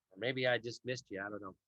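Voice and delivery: talking through a yawn; words stretched by a yawn. Real, not acted. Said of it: "apologize for the yawns".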